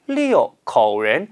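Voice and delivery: 六口人 with a slow, clear falling 六; stress on 六. Shown as a demonstration. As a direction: hit 六 hard and let it fall. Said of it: "숫자 육 발음".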